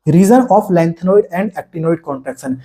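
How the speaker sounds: very slow, word by word like a heading; slow dictation. Shown as a demonstration. Teacher reading a heading to the class, very slow. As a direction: read the heading out slowly for notes.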